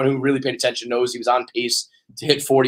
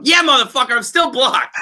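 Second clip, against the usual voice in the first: high, laughing exclamation; a real laughing cry of defeat; laughing outburst; 10 semitones higher, 3 dB louder than usual. Real, not acted. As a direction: laugh it out in disbelief. Laughing in disbelief at being blocked.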